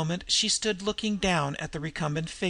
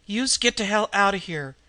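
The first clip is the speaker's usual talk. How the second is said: a tough street-voice order, a touch louder; croaked; 4 semitones higher, 4 dB louder than usual. Acted. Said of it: "she croaked".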